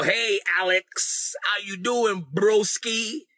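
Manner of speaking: drawn-out casual buddy greeting; imitating a too-familiar churchgoer; mock over-familiar greeting. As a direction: stretch it out like an overly chummy pal. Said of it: "they'll just humanize you to call you by your name".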